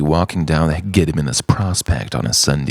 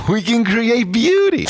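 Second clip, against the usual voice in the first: much higher, laughing through the words. Acted. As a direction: giggle out the line theatrically. Laughing high put-on voice.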